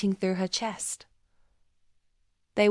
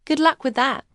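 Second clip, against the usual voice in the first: higher, sarcastic sweetness; false sympathy; 5 semitones higher than usual. A narrator's reading. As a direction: fake concern dripping with sarcasm. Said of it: "her voice dripping with false sympathy".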